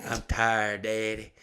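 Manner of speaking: imitating a tired little son, breathy whisper at first; sleepy kid whine. Dad imitating his sleepy son begging to rest, whining. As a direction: whimper it like a worn-out child. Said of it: "and he's like".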